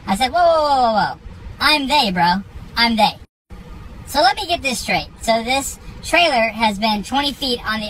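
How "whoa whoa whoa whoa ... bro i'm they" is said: retold cutting in. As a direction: halt him mid-sentence, half laughing in disbelief. He cuts off the neighbor.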